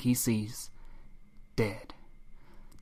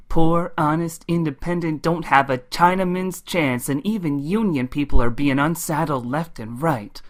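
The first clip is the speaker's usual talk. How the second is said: folksy CB-radio preacher, pitched up at the greeting; showboating trucker orator; 3 semitones higher than usual. Acted. Ryder P. Moses addressing truckers over the radio, showboating. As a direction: hold forth like a roadside sermonizer.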